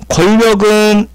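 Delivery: "권력은" said [궐려근], ㄴ turned to ㄹ; teacher demonstrating "권력은" with a double l, kwollyeok; liquid assimilation. Shown as a demonstration. Teacher contrasts two words, "권력은" pronounced as [궐려근]. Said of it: "유음화인데".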